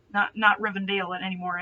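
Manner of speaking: usual speaking voice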